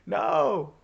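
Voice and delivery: high, loud mock shout; imitated shouting. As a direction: imitate a man yelling after you from behind. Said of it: "I just hear him shouting".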